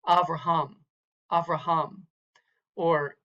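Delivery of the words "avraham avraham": "Avraham" with the weight on "ham"; final-syllable stress. Shown as a demonstration. Teacher modelling Hebrew accent, "Avraham" stressed at the end. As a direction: lean on the last syllable of "Avraham". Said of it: "accented on the final syllable".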